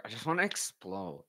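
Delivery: low, hushed mimicry of bottled-up excitement; imitated restrained outburst. Streamer shows how the fighter said it without yelling, held back. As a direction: imitate someone holding it in, softly. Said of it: "he literally said it like that".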